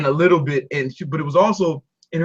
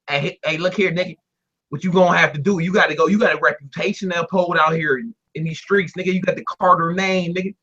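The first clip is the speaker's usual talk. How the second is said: streetwise dad character. Retold or imitated. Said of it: "that's the character I've created".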